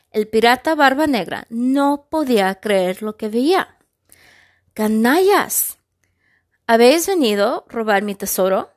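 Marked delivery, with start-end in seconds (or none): 4.7-8.7 loud, angry pirate snarl; furious growl. Acted. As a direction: growl it at the intruders. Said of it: "gruñó enfurecido".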